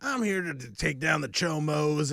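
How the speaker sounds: imitated gravelly vigilante. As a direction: announce the mission in a put-on gravelly voice. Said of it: "this real gravelly voice".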